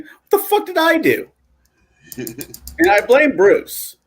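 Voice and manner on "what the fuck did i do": high laughing line, voice cracking with giggles; laughing catchphrase. Retold or imitated. Quoting his own catchphrase to friends, laughing high. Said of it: "I've been saying".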